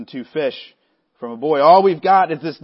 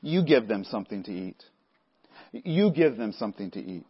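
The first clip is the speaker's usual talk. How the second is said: low, soft and sincere; sincere, no sarcasm; 6 semitones lower, 7 dB quieter than usual. Retold or imitated. Jesus quietly telling the disciples to feed them, sincere. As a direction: say it plainly, without any edge. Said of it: "there's no sarcasm in Jesus' voice".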